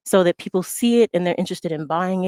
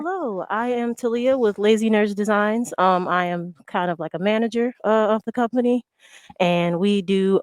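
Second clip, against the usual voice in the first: breathless after a sprint; talking while still catching breath; 2 semitones higher than usual. Real, not acted. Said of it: "Sorry, I'm out of breath 'cause I sprinted in here".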